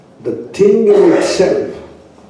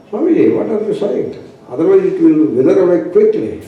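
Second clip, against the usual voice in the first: fast, lightly voiced helper; quick retold reply; 3 semitones higher, faster than usual. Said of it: "the person told me".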